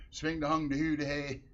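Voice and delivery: a light hint of a mock Swedish accent; lightly voiced sing-song Swedish chef babble. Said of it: "the Swedish chef".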